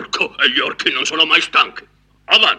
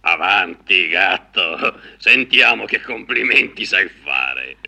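ogre voice; 7 semitones lower, slower than usual. Acted. Ogre speaks, vain and bossy.

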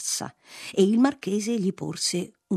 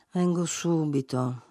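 tamed, subdued; 2 semitones lower than usual. A narrator's reading. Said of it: "rispose ammansito il patrizio".

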